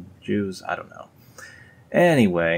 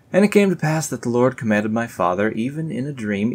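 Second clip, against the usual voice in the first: raised, solemn verse reading; scripture reading; 4 semitones higher than usual. Acted. Reading the dream verse to viewers, solemn. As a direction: read it out like holy writ.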